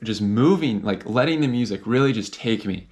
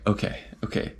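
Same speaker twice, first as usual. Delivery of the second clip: whispered self-calming; 2 semitones lower, 7 dB quieter than usual. Retold or imitated. Hidden, calming himself down.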